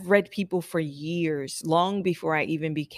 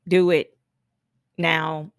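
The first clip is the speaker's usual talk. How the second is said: louder, punched-out command; assured demand; 6 dB louder, slower than usual. Acted. Regulator client ordering the stylist to act, assertive. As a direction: order it like you already know. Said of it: "Like, they know it".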